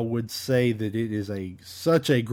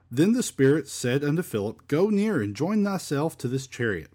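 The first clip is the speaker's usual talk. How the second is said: measured Bible reading, lilting phrases; scripture reading; 4 semitones higher than usual. Acted. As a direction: read the verse aloud to a congregation. Reads scripture aloud.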